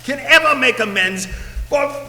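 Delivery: raspy ghost voice. Acted. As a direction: warn him like a doomed spirit. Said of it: "this raspy voice".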